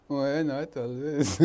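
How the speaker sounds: drawn-out words breaking into laughter; amused laughing. Real, not acted. Teacher teasing a student who says not always, amused laughing. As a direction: let the question dissolve into a chuckle.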